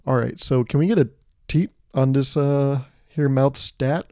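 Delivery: newborn as corporate manager. Retold or imitated. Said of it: "baby being like".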